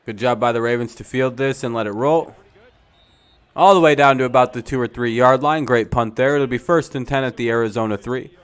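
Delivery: sportscaster's projected, energetic call; live play-by-play. Real, not acted. Calling a great punt for viewers, live play-by-play.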